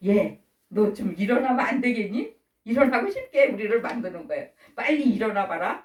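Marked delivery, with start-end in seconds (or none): 0.1-2.3 mild coaxing question; gentle exhortation. Acted. God urging a sleeper to rise, gently coaxing. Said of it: "감동시키게 우리 속에서 권면하세요". 4.7-5.8 mild, coaxing wake-up call; gentle exhortation. Acted. God coaxing someone out of bed, gently. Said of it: "이렇게 우리에게 권면하셔서".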